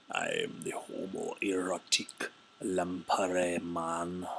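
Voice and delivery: slow, theatrical voice of a lamprey man; homoerotic lamprey man. Pretend. Streamer voicing a card creature, slow and hammy. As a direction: ham up a seductive sea creature.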